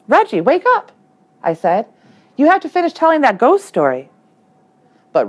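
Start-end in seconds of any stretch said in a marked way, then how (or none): 0.1-0.9 higher, louder call to wake him; urging him awake, higher and louder. Acted. Trying to wake sleeping friend. 2.4-4.1 pleading to wake. Acted. Trying to wake sleeping friend.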